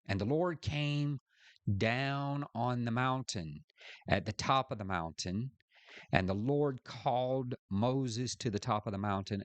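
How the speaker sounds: lifted, measured verse reading; scripture reading. Real, not acted. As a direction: read the verse aloud to a class. Reads scripture aloud.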